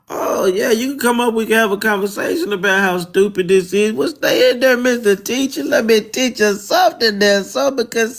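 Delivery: high, sarcastic squeaky voice; mock high-pitched voice. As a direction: taunt Mister Teacher in a sky-high mock voice. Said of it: "that little high-pitched voice motherfucker".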